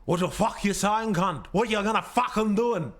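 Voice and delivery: put-on aggressive Western Sydney accent; rough Western Sydney tough guy; Lebanese Australian accent. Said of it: "a Lebanese Australian accent?".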